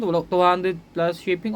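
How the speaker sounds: slow price pitch. Real, not acted. Pushing viewers to buy.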